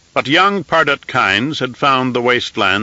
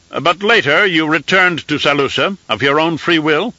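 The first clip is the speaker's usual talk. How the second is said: high, thin voice of an aged emperor; an old ruler used to giving firm commands; reedy scratchy old voice; 5 semitones higher than usual. Acted. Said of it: "in a reedy, scratchy voice".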